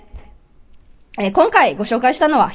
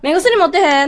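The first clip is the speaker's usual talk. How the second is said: Kansai dialect demo; 3 semitones higher than usual. Shown as a demonstration. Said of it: "ってこういう風になりますね".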